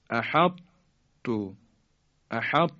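احط with heavy ط held, then released into a light "tu"; incomplete merging. Shown as a demonstration. Tajwid teacher models another word, احط keeping the heavy ط. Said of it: "اینطور تلفظ کنیم".

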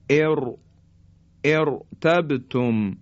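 slow "ارتبتم" with a thick R; heavy R. Shown as a demonstration. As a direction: isolate "ار-", then give "ارتبتم" with ر heavy. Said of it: "این تفخیم". («ارتبتم» آهسته، با رای درشت)

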